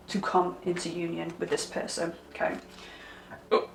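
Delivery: hiccuping mid-sentence; suppressing hiccups. Real, not acted. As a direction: swallow a hiccup as you talk. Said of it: "oh, hiccuping again".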